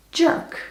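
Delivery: Jörg said as English "jerk"; American pronunciation. Shown as a demonstration. Giving Americans' reading of a German name, American pronunciation. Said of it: "as they would pronounce it".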